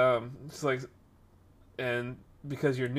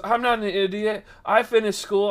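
high, raised-voice imitation of offence; indignant protest; 7 semitones higher, 5 dB louder than usual. Retelling the lady's answer to being called idiot, indignant. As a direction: protest the insult, pitched up. Customer acted protesting the insult.

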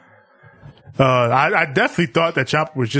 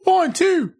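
mock taunt. Imitating wrestler taunt.

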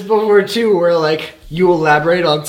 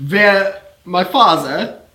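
role-played patient; 6 semitones higher than usual. Friend role-playing Freud's patient, lightly voiced patient. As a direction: play the dreaming patient half-seriously. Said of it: "Let's role play this".

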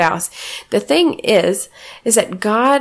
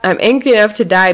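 mock angry shout; 5 dB louder, faster than usual. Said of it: "Jonah says".

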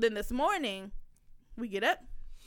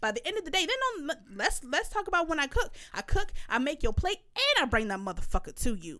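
retold angry rant, emphatic and swinging in pitch; pissed-off telling-off; 2 semitones higher than usual. Mother telling off child who called her lazy, pissed-off rant. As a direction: act out a mother reading her child the riot act. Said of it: "I instantly got pissed off".

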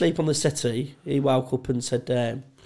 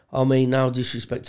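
deadpan polite preamble; straight-faced. Retold or imitated. Drunk host addressing lingering guests, straight-faced. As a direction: say it with a straight face, in an everyday voice. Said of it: "I did this straight-faced as well".

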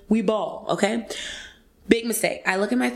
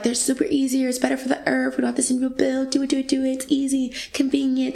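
mock company pitch; 6 semitones higher, faster than usual. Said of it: "That's what they say".

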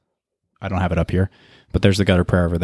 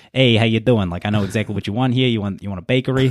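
put-on light, playful Italian accent, a bit quick; jokey Italian accent. Podcast host shows friend his jokey Italian accent. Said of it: "funny jokester Italian accent that I do".

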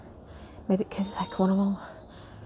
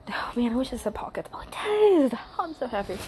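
breathy whispered aside; whispering; 3 semitones higher, faster than usual. Real, not acted. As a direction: whisper it to yourself. Aside, unvoiced.

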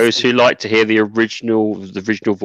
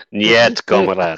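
put-on Russian accent; 3 dB louder, much slower than usual. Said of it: "the guy was speaking Russian with a Scottish accent".

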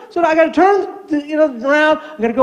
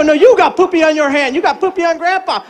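mildly mock-indignant grandpa; lightly exasperated comeback; grandpa's retort; 4 semitones higher than usual. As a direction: argue back at a child, only slightly raised. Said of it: "I go".

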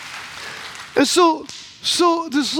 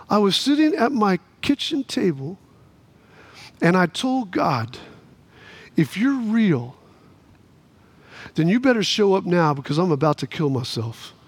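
grave despair; 7 semitones lower, 4 dB quieter than usual. Retold or imitated. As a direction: sink into a heavy, hushed low register. Retold despairing prayer of suicidal woman.

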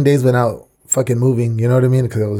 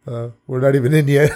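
amused. Retold or imitated. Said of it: "he's like".

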